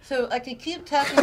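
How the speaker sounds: laughing through cheeks full of air; puffed cheeks. Shown as a demonstration. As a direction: talk with puffed cheeks, giggling. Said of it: "but I could talk like that".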